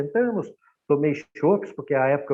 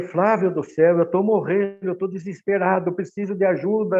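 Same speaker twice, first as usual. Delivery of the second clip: mock panicked yell, a bit louder and higher; half-acted panic on the phone; retold frantic shout; 3 semitones higher, 3 dB louder than usual. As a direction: replay the desperate plea down the phone. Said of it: "gritando, gritando".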